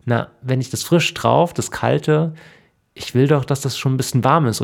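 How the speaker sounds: höher und lauter, eifrig erklärend; aufgeregt drängend. Acted. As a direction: sie will es unbedingt warm haben. Frau drängt auf warmes Wasser. (aufgeregt und höher drängend)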